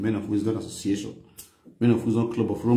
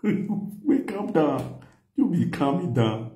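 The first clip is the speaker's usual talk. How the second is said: raised voice; 6 semitones higher, much slower than usual. Retold or imitated. Shouting to calm the wife.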